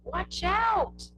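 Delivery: high, loud call of warning; a sudden loud heads-up; warning shout. Shown as a demonstration. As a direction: shout it out to warn someone. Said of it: "use these to indicate a warning".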